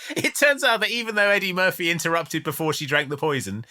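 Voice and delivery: amused, barely holding back laughs; laughing while talking. Real, not acted. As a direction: tell it through laughter, voice rising at the end. Can't keep from laughing at plot.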